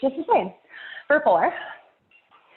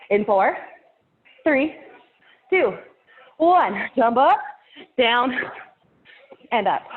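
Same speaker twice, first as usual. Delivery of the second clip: energetic call out; slower than usual. Real, not acted. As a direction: pump the class up on the jump. Workout countdown, calling out.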